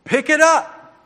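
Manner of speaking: high, loud shouted orders; coach's yell. Shown as a demonstration. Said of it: "I used to coach".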